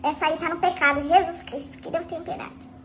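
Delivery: whispered scandalized aside; hushed, scandalized whisper; shocked whisper. Retold or imitated. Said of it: "fiz assim". (sussurro escandalizado)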